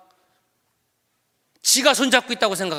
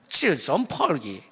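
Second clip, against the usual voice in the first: mock Chinese accent; 2 semitones lower, slower than usual. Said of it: "좀 중국말 하는 것 같지 않아요?".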